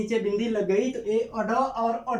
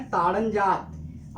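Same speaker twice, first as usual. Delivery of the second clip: ताड़न जात drawn out slowly; slow modeled ताड़न जात; slow answer drill; much slower than usual. Shown as a demonstration. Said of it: "क्या बोलते हैं?".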